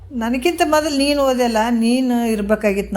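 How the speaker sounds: high start, easing down, mock lament; mimicked wailing. Guru reminds the mother of her lament, mock wailing. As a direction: quote her weeping back at her, lightly imitated. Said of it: "ಅಂತ ಅಳ್ತಿದ್ದಿಲ್ಲ".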